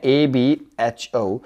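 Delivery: letters spelled out slowly one by one; slow letter dictation; slow spelling. Shown as a demonstration. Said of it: "क्या कहा मैंने?".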